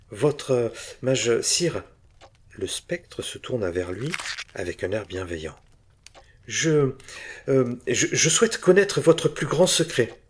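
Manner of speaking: hesitant, rising to a loud, high plea; stammering before a royal ghost; nervous stammer. Acted. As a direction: stumble then blurt the wish.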